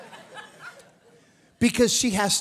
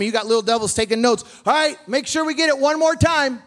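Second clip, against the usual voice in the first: loud, raised preacher's voice; full-force preaching; 7 semitones higher, 5 dB louder than usual. Real, not acted. Preacher urges church to stop arming the enemy, forceful exhortation. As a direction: drive it home to the congregation, loud and high.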